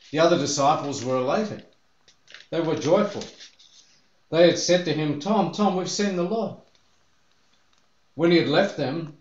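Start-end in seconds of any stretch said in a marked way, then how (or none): 5.2-6.6 high, eager calling out; excited call. Retold or imitated. Disciples telling Thomas they saw the Lord, excited. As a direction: burst in with the good news.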